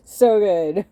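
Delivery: loud, high, gushing praise; excited. Real, not acted. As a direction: belt it out with delight. Emphatic repeat of praise.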